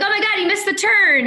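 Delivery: high-pitched exclamation of disbelief, acted out; mock exasperation. Laid-off passenger watching the driver get lost, mock dismay. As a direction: blurt it high, replaying your dismay. Acting out her panic in the car.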